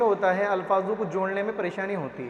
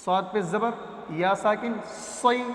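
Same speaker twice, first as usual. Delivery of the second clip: slow spelling drill; slower than usual. Shown as a demonstration. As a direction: slowly spell out صاد پہ زبر یا ساکن صی. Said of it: "teacher drills the sound slowly". (آہستہ آہستہ ہجے کر کے)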